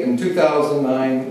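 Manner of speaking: ordinary talk, nothing marked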